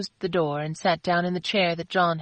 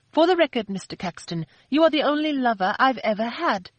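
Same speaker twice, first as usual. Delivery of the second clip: angry retort; 6 semitones higher than usual. A narrator's reading. Christina angrily correcting Philip.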